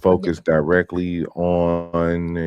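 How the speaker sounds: slow, stiff press reporter; lightly voiced stiff reporter; formal reporter voice. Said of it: "'Cause they had to be like".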